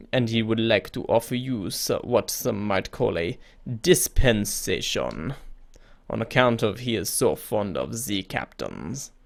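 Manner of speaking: slow, creepy French-tinged emissary. Acted. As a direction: draw out the words in a mildly creepy French voice. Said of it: "I've got to do a creepy voice".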